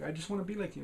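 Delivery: high, pleading sidekick voice; imitated wistful little admirer; Horror. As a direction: plead it up high, like an adoring tagalong. Retelling Horror pleading with Adventure.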